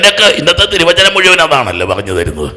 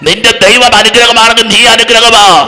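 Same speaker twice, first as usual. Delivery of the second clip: full-force preaching; 4 semitones higher than usual. Real, not acted. Preacher rousing a congregation to shout hallelujah, full-force preaching. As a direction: proclaim it to a crowd, driving each phrase.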